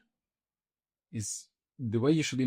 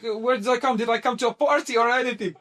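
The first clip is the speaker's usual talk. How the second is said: high, loud incredulous questioning; retold bewilderment; 12 semitones higher, 6 dB louder than usual. New model walking into a noisy flat, mock bewilderment. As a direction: squeal it in mock disbelief. Acting out own bewildered reaction.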